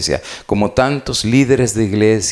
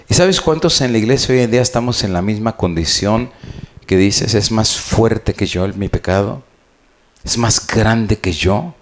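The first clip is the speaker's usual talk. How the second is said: preaching. Acted. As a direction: preach it to the pews, pressing each point. Preacher addresses congregation.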